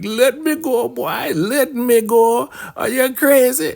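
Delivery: high, hammed-up squealing plea; comic outrage in a squeaky high voice; mock frantic protest. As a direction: imitate a woman struggling to break free. Acted woman fighting off a grab.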